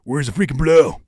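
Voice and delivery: sudden, very loud demand; shouted outburst. Real, not acted. Host asking where it is, shouting. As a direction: burst out shouting the question.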